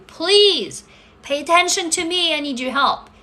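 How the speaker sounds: high-pitched plea for attention; mild pleading cry. Acted. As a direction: imitate a body begging for help. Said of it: "It's just literally crying and telling you".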